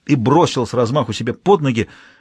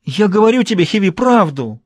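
moaning plea; 8 semitones higher, 4 dB louder than usual. A narrator's reading. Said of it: "простонала Амра".

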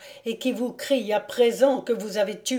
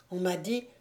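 embarrassed; 9 dB quieter than usual. A narrator's reading. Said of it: "répliqua Conrad embarrassé".

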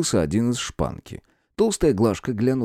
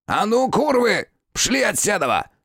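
barking shout; 13 semitones higher than usual. Acted. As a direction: bark them out of the room. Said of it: "рявкнул он".

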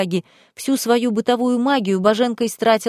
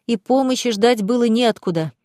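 usual speaking voice

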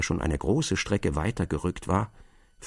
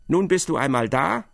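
curt command; 3 semitones higher, 3 dB louder than usual. Acted. Advocate commands Block to stay.

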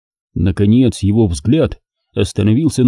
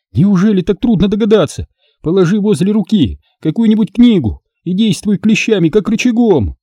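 higher, impatient instructions; exasperated scolding; 9 semitones higher than usual. Acted. Daughter scolds father.

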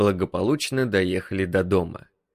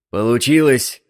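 loud joyful shout; triumphant yell; 3 semitones higher, 8 dB louder than usual. A narrator's reading. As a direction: bellow the win. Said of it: "заорал док".

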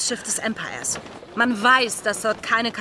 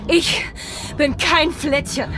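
indignant retort; 5 semitones higher, 4 dB louder, slower than usual. Acted.

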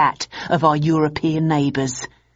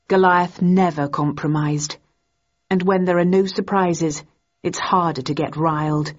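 usual speaking voice

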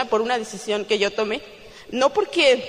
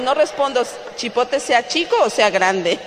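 laughing saying; 5 dB louder than usual. Real, not acted. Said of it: "En México decimos".

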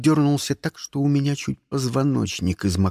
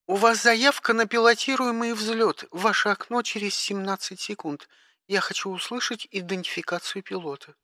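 high, clipped dispatcher tone; operator voice; 7 semitones higher, 4 dB quieter than usual. Acted. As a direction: speak like a bored spaceport operator. (голос диспетчера)

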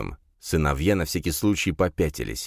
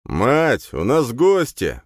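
growled loud and high; growling; 6 semitones higher, 4 dB louder, much slower than usual. A narrator's reading. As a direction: growl it out like a beast. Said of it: "прорычал Рин".

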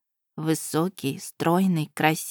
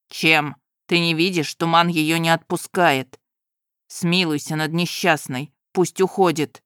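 groom exclaiming. Acted. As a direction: marvel at the clever horse. Groom answers.

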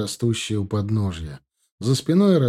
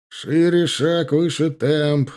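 shouting commands; 4 semitones higher, much slower than usual. Acted. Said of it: "успевал кричать он".

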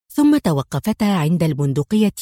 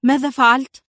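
curious; 6 semitones higher, 3 dB louder than usual. A narrator's reading. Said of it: "سألته في فضول".

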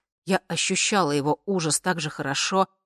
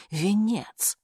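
a sudden exclamation, a little higher; 6 semitones higher than usual. Acted. Narrator realizing what squeezes her temples, exclaiming. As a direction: blurt the word out as it dawns on her.

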